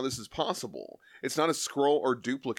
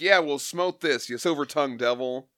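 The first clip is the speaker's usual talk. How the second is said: higher, punched-up comic-book brawler; acted tough-guy Thing; 4 semitones higher, 3 dB louder than usual. Host voices the Thing threatening the Surfer, mock bluster. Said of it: "so the thing's like".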